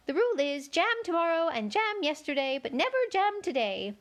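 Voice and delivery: high, fussy White Queen. A narrator's reading. Queen corrects Alice in a high fussy voice. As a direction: pitch the Queen up high and flustered.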